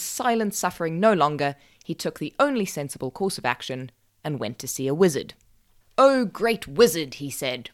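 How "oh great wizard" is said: politely formal. A narrator's reading. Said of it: "remembering the manners his mother had taught him".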